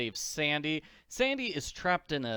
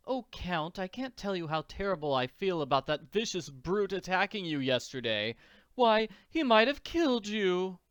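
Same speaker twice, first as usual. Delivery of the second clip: higher, gushing society lady; Missus Warbucks; 5 semitones higher than usual. Acted. Missus Warbucks apologizing to the bitten Count, fussing. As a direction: fuss over an injured guest.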